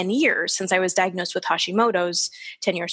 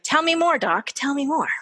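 eager interest; 7 semitones higher than usual. Retold or imitated. Acted eager reply to her doctor.

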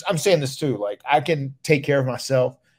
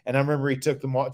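normal talking voice

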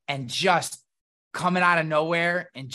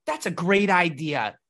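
mock-sweet reply hiding contempt for a coworker; fake nice. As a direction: put on overly nice politeness. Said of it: "what comes out of my mouth is like".

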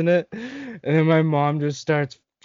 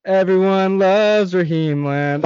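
higher, slow, silly put-on voice; mock Raheem's goofy little voice; dumb little voice; 6 semitones higher, 4 dB louder, slower than usual. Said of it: "Raheem's dumb little voice".

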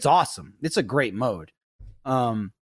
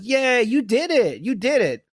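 imitating toddler daughter; 9 semitones higher, 3 dB louder than usual. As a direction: cheer him on like a small child. Daughter praising dad.

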